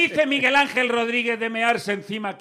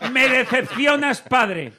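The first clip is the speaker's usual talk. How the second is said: louder, slow, theatrical disappointment; mock dramatic reproach; 5 semitones higher, 7 dB louder, much slower than usual. Co-host voices the daughter reproaching her father, theatrically. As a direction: deliver it like a soap opera line.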